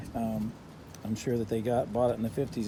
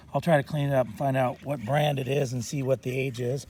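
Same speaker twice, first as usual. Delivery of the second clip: slightly hoarse, throat needs clearing; frog in throat. Real, not acted. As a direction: talk through a frog in the throat. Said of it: "Excuse my voice, I got a little frog in my throat".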